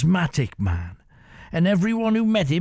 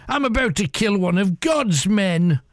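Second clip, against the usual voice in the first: mildly raised, higher taunting call; shouted; 5 semitones higher than usual. Acted. Pirate boasts to his men he will kill the priest, mild shout. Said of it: "he shouted to his men".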